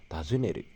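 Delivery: Tazuneru with the pitch going up and then down; careful demo of the pitch accent on Tazuneru; rising then falling pitch. Shown as a demonstration. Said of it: "Nah, dia naik turun".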